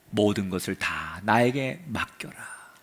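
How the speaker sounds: slow, whispered, falling on 나에게; tender whisper. Acted. God whispering comfort to Elijah. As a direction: breathe 맡겨라 softly like a promise. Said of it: "뭐라고 말하느냐".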